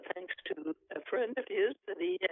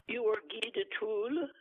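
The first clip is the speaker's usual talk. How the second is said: harsh voice; 4 semitones higher than usual. Acted. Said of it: "a harsh voice inquired".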